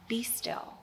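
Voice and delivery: whispered gently; calm the storm with a soft whisper; breathy whispered command; hushed. Acted. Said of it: "And he says".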